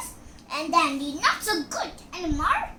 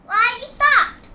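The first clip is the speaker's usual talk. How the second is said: higher, louder demand; 8 semitones higher, 10 dB louder than usual. Real, not acted. Child demanding parent keep playing, loud and high. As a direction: call out why it stopped.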